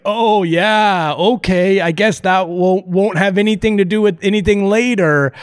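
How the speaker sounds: casually going along, pretending not to know; feigned nonchalance. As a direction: act like you know nothing about the ending. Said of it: "totally play it cool".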